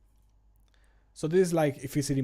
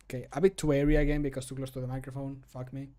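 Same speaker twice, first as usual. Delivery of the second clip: ordinary talk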